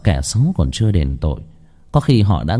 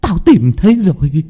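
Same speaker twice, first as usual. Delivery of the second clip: triumphant discovery; 9 semitones higher, 5 dB louder than usual. A narrator's reading. Woman sure she has found the boy, triumphant cry.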